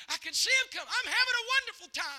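high, joyful exclaiming; imitated rapture. Dying woman watches angels come, imitated joyful rapture. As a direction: act out her delight, pitch climbing.

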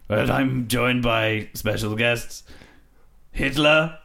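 lightly hammed Victorian host; slow old-timey announcer; old gramophone. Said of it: "first ever podcast, recorded onto wax cylinder".

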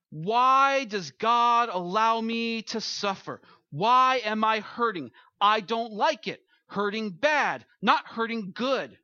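a sufferer crying out to God; anguished questioning. Acted. A hurting believer pleading with God about suffering.

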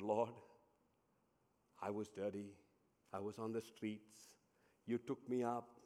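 low, soft, halting confession; hushed, humbled gratitude, with long pauses; understated tearful prayer. A narrator's reading. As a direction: voice a crying character gently, without sobbing. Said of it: "the bamboo began to cry".

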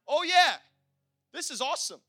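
a lively high mock cheer; mock delighted wife; imitating excited wife. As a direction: play the wife thrilled the plan worked. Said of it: "wife voiced delighted".

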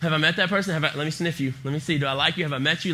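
a hint of a people-loving dog; lightly voiced dog. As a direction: rattle it off like a dog checking out visitors. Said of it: "Remy's favorite thing to do is he's like".

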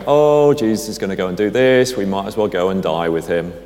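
sarcastic sigh of an "oh", then sinking resignation; a touch of sarcasm, dragged out on the "oh"; mildly sarcastic. Acted. Thomas grumbling about following Jesus to danger, mildly sarcastic. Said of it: "being a little bit sarcastic and going".

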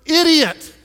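idiot, said high and loud; punchy reveal. Real, not acted. Preacher springs the punchline on the crowd, high and loud. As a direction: land idiot with a grin. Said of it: "go ahead and say it".

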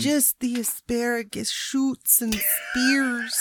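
put-on whispered British accent, slow. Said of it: "That's your best British accent".

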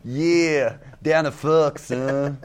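imitating an American co-host; playful American impression; mock American accent. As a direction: send up his American slang and accent. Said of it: "That's me doing you".

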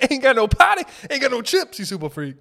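high, loud singsong complaint; mock stoner lament. Stoner character complaining about no chips, high singsong. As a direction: whine it like a stoned funk tune.

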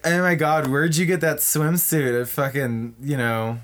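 lightly mocking mean-girl put-down; ditzy and catty. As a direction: tease like a catty airhead. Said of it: "They're very ditzy and catty".

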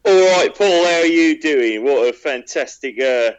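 Nathan's voice. Pretend. Guest greets the host pretending to be the absent co-host, lightly put-on voice. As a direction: greet the host as the absent co-host would, half-seriously. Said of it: "are you gonna talk like that throughout the entire podcast".

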